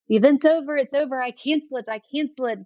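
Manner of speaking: put-on excited chef's French accent, high, fading to calmer. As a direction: retell a French chef bursting out of the tent in his accent. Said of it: "in his wonderful French voice".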